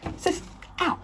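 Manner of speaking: pained ow. Real, not acted. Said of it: "I just banged my nose".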